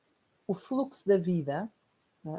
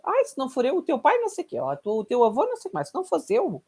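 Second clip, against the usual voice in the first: higher, louder martyr lament; imitating the heroine mother; 7 semitones higher, 6 dB louder than usual. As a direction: sigh it out like the one who does it all. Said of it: "quantas vezes nós ouvimos isto". (imitação queixosa, aguda e alta)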